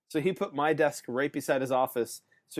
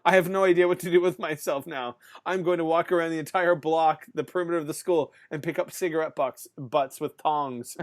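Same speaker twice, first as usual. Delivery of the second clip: louder, half-joking despair; exasperated inner rant; 2 semitones higher, 5 dB louder than usual. Retold or imitated. Bored teacher with nothing to do, louder mock panic. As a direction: rant like a bored teacher going stir-crazy. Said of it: "You're kind of like".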